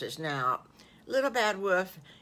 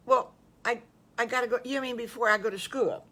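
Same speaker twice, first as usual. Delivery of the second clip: put-on a touch higher, quick and eager little boy; child wolf voice; 5 semitones higher, 4 dB louder, faster than usual. Young wolf answering the farm wife, a little higher and quick. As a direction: rush it out like a surprised six-year-old.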